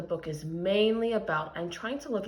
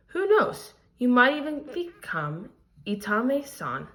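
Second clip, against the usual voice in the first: expressive read-aloud storytelling; story reading; 3 dB louder than usual. A narrator's reading. Teacher reading a picture book aloud to her class, expressive storytelling. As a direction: tell the story to the class with feeling.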